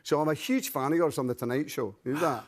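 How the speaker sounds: Scottish demonstration; Glasgow accent. Shown as a demonstration. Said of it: "I've heard you're Scottish".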